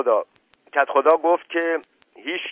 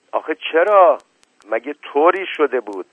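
high, loud cry of disbelief; pressed out in shock; dismayed; 5 semitones higher, 7 dB louder than usual. Acted. Naneh Khanom asks the grieving wife why, loud and high.

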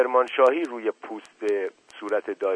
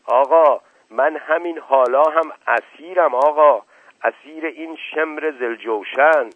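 loud, raised-pitch outcry; exasperated protest; 4 semitones higher, 6 dB louder, slower than usual. A narrator's reading. Dust Ali protesting to Uncle that he is captive, exasperated. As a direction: drag out the complaint loudly.

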